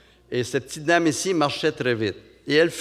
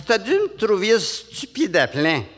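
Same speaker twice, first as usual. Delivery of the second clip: high, slow sheepish lady; Montréal lady; 7 semitones higher, slower than usual. Retold or imitated. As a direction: admit it, embarrassed. Lady embarrassed.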